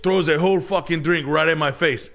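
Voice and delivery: high put-on Dominican accent, building; Dominican buddy accent. Buddy bragging about the fight in a Dominican accent. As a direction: brag through the fight in the accent.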